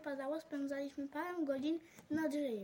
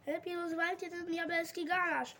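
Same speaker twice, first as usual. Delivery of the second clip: raised mock roar, a bit louder; 3 semitones higher, 3 dB louder than usual. Old painter roaring from the attic in a mild mock roar. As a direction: bellow it half in play. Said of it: "ryczał siwy malarz".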